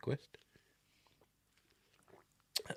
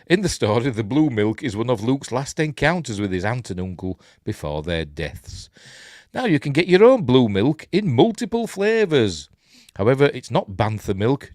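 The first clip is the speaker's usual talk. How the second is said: lively, lilting news read; article read aloud; 3 semitones higher, 3 dB louder than usual. Acted. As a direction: read the story out like a light news item.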